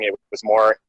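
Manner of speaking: breaking up on a bad call; cutting out. Real, not acted. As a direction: voice dropping out mid-word. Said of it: "you cut out again".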